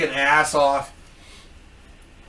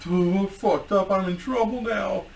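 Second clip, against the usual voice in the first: soft, hammed-up whimper; mock-pitiful hushed groan; wounded little soldier; 2 semitones higher, 7 dB quieter than usual. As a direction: moan it quietly like the walking wounded. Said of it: "like a wounded little fucking soldier".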